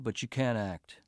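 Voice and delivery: calm, matter-of-fact; blunt verdict. Acted. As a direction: state it flatly and coolly. Professor gives a blunt verdict.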